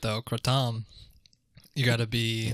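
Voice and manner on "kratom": Kratom said "kruh-TOM", stress on the end; correct kratom. Shown as a demonstration. Guest corrects the host's kratom, saying "kruh-TOM". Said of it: "That's how you say it".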